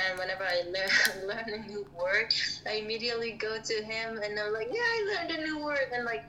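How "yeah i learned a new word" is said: imitated excitement. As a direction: report proudly in a small raised voice. Acts own excited report to friend.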